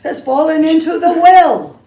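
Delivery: put-on boy blurting the short name with a laugh. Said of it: "he can't".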